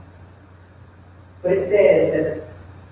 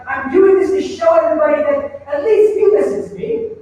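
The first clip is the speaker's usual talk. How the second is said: higher, lightly sarcastic aside; subtle sarcasm; 5 semitones higher, 3 dB louder than usual. Acted. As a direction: make a pointed show of being listened to. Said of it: "operate with little bits of sarcasm".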